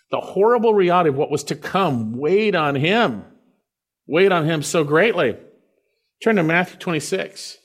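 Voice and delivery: impassioned preacher; preaching at full force. Acted. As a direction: drive the grief home to the congregation. Preaching with rising intensity.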